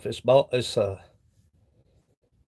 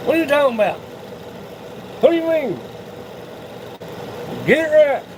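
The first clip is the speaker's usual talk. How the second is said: mock locals; 8 semitones higher, faster than usual. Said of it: "They'd be like".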